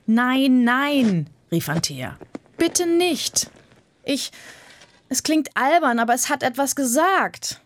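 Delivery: put-on high girl's voice, urgent then sheepish; pleading girl. Anthea begging the boys to leave it alone, high and urgent.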